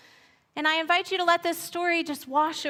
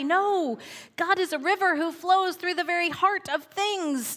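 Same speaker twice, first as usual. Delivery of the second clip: hammed-up waterfall thunder, pitched high; a hint of a roaring waterfall; 5 semitones higher than usual. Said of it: "thundered the waterfall".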